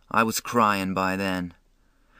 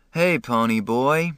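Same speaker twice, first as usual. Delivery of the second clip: sleepy; 3 semitones higher, 3 dB louder than usual. Acted. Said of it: "he said sleepily".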